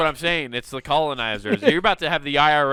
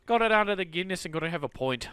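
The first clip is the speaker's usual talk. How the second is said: Irish accent; 2 semitones higher, 5 dB quieter than usual. Shown as a demonstration. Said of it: "It always turns into sounding like a hobbit".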